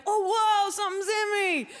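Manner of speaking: high, gasping mock amazement; be astonished by a new sensation; wide-eyed wonder. Recalling the first thrill of sex, in mock awe. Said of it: "you're like".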